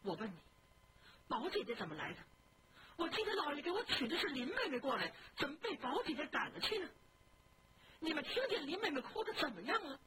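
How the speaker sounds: high, fast, half-laughing tearful questions; pleading through tears, voice pitched high; tearful plea. Acted. Sick young man asking his maid about his cousin, tearful. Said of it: "拉着手哭着说".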